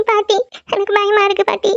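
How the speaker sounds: put-on girl telling grandmother she is scared. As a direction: tell grandma you're afraid. Girl clings to her grandmother.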